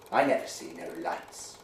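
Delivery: grudging, low sulky reply. A narrator's reading. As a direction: mutter it sulkily into your drink. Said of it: "said Master Poole sulkily".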